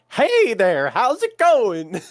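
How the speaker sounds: high, slow cheery greeting; cheery voice in the head. Retold or imitated. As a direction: greet them, bright and drawn out. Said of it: "the back of their mind is going".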